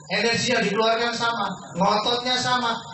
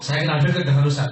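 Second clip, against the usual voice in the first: enthusiastic; 6 semitones lower than usual. Shown as a demonstration. Coach showing the enthusiastic way to tell people, keen. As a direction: say it like you're proud of it. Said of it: "Ngomongnya antusias gitu".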